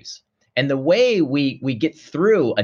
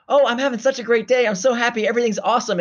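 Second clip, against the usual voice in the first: sing-song, much higher mock glee; hammed-up happy voice, pitched way up; mock cheerful; 10 semitones higher, faster than usual. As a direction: gush like someone on top of the world, tongue in cheek. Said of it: "You don't say".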